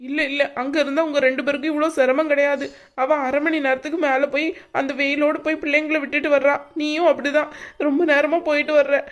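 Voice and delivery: upset, lightly crying voice; tearful. Acted. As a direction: insist through tears that they should go. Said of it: "அழுகை நிப்பாட்டுங்க".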